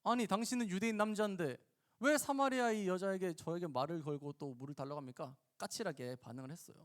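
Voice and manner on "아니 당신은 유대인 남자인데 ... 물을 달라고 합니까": mildly testy woman's protest; prickly retort. Acted. Samaritan woman questions the Jewish man, mildly prickly. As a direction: question him with a touch of prickliness. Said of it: "여인이 까칠하게 대답했죠".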